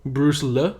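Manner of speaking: "Lee" said as "luh", questioning; literal misreading. Shown as a demonstration. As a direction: say "Lee" with a short uh vowel, as a question. Reads the misspelled surname literally.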